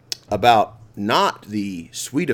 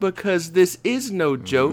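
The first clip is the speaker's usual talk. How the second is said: stoner; 7 semitones higher than usual. Acted. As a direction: read it like you're blazed. Poem read after joking he's high.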